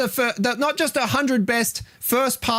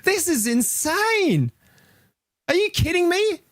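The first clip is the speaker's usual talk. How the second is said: outraged disbelief; 11 semitones higher than usual. Real, not acted. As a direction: let the outrage lift the voice high. Outraged at ranking.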